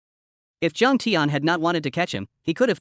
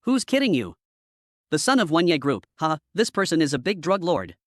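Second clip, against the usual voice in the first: sneering. A narrator's reading. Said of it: "Jiang Tian sneered and said".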